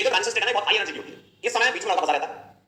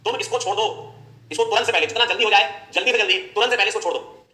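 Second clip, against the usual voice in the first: urgent uncle; 4 semitones higher than usual. Acted. Uncle urging the boy to break up, in an insistent raised voice. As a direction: push him hard to drop her now. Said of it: "ये जो uncle है, ये कहते हैं".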